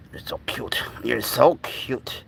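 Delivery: soft adoring murmur, then drawn out; tender cooing. Real, not acted. To a cute baby animal, tender cooing. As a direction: dote quietly on a tiny pet.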